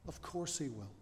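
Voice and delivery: very soft, quiet repeat for effect; hushed assurance. Real, not acted. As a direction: drop right down and let it settle. Same answer repeated softly for effect.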